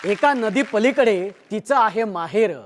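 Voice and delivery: measured lilting verse with repeated lines; poem recitation. Real, not acted. Host recites verse about a married woman's maternal home, lilting. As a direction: recite it with a rise and fall on each phrase.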